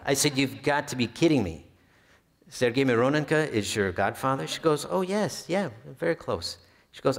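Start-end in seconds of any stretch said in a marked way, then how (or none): 0.4-4.5 incredulous, laughing through the words; can't believe your luck; delighted half-laughed astonishment; laughing disbelief. Retold or imitated. Stunned at lucky news. 4.9-6.6 high, light, casual voicing of the woman; lightly voiced chirpy godddaughter; breezy young woman. Retelling the young woman's reply.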